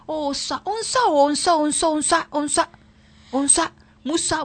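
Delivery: high whiny unsa unsa; mock whining. Host mocking the complaints she expects from callers. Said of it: "I don't want to hear".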